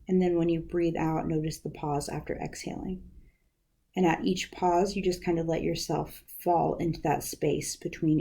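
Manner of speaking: calm, unhurried meditation guidance; guided meditation. Acted. Counselor guiding students through breathing practice, calm meditation voice. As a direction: ease listeners through each breath. Leads breathing and wise mind exercises.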